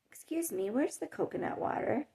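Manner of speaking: imitating a pleasant, polite shopper; nice tone. Lady asking a store worker for help, nice tone. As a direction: ask politely, in a lightly voiced nice tone. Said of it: "in a very nice tone".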